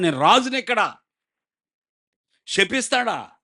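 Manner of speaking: a proud king offended by a prophet; outraged king. Acted.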